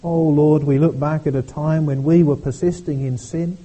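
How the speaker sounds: earnest congregational prayer. Acted. Pastor leading the congregation in prayer, earnest. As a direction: pray aloud for the whole church.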